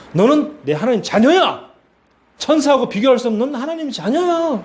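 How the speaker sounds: high, rising proclamation; emphatic declaration. Acted. God assures believer they are his child, emphatic declaration.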